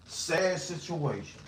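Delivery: hushed mock sadness. Repeats phrase, hushed.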